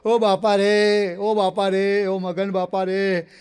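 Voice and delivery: hammed-up mourner's wail; mock wailing. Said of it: "જોર જોરથી રડવા માંડ્યો".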